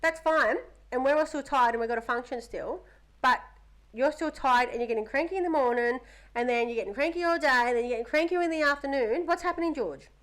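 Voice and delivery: lecturing mum. Retold or imitated. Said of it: "I said".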